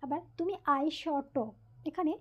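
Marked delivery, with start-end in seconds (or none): 0.8-1.4 আই শ ট in pieces, ai-shô-ṭô; teacher's careful breakdown of আই শ ট; syllable by syllable. Shown as a demonstration. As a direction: sound out আই শ ট with open vowels on shô and ṭô. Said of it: "এখানেও একই রকমভাবে".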